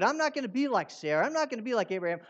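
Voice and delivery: mock-confident vow stressing not; mock boast. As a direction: brag it like an overconfident believer. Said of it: "You know, one of these days".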